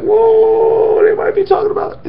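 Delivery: high, breathy astonished aside, then whispered; a playful stunned whisper; mock amazed whoa. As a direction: gasp it out like a sudden realization. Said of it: "you're like".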